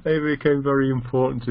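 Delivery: amused, laugh breaking into the words; real chuckle mid-sentence. Real, not acted. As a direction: try to explain through a laugh. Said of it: "sorry, I'm laughing because".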